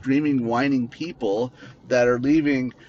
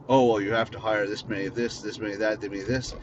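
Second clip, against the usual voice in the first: mocking quota demand; 3 semitones lower, much faster than usual.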